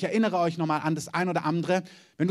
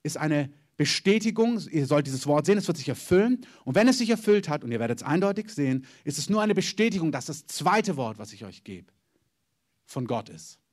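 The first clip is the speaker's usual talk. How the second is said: prophet's proclamation. Retold or imitated. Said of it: "Er sagt".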